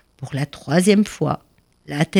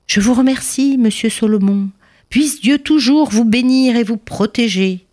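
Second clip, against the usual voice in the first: higher, kindly grateful rabbi; warm thanks; 7 semitones higher than usual. A narrator's reading. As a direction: thank him warmly, with a smile in the voice. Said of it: "lui sourit chaleureusement".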